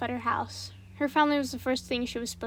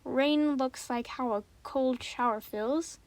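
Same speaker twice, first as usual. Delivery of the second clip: puzzled question; slower than usual. Acted. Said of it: "Annie tilted her head".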